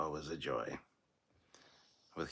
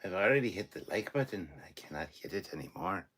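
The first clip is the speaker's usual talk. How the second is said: put-on Scottish accent; 2 semitones higher than usual. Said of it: "Said with a Scottish accent".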